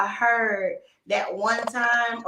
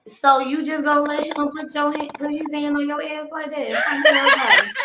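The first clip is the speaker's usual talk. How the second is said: lightly voiced auntie, higher pitch; auntie calling you out; 5 semitones higher than usual. Co-host imitating her auntie at a cookout, a touch of public call-out. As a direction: call out the young couple like a disapproving aunt. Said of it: "my auntie's calling you out".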